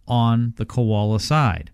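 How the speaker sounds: normal talking voice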